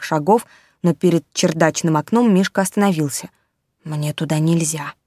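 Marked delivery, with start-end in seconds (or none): 3.8-4.9 timid teddy bear. Acted.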